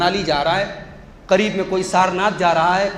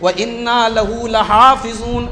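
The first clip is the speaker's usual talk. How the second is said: slow chanted Arabic verse; Quranic recitation; 4 semitones higher, 5 dB louder, slower than usual. Acted. Preacher chants the sons' verse to the congregation. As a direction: recite slowly in tilawat.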